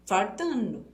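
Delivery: "fartando", an r in place of the l. Shown as a demonstration. Teacher slips on the missing little leg, "fartando" with r for l. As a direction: say "fartando" with r where "faltando" has l. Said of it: "não tá faltando uma perninha".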